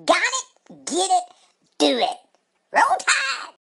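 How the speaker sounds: high, loud taunting Roll Tide; gloating cheer. Retold or imitated. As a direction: crow the team cheer at him. Gloating cheer at rival fan.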